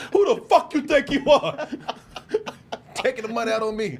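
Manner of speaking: imitated furious caller; mad. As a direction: play the indignant scammer at full volume. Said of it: "Guy got mad".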